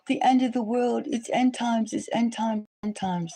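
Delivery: mock doomsayer. Mocking people who panic, a high doomsayer wail. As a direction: wail it like a doomsayer, then trail off. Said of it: "and go".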